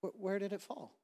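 softly asked, no shout at all; gentle question. Retold or imitated. Preacher re-voices the man of God's question, softly. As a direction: let the question land gently. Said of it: "It wasn't a shout".

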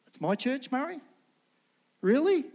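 high, mock-incredulous question. God questioning Murray's claim of ownership, incredulous. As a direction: raise it up, amused disbelief.

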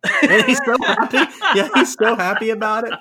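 high, loud, laughing remark; giggly delight. Real, not acted. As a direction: say it through laughter. Laughing at the scene.

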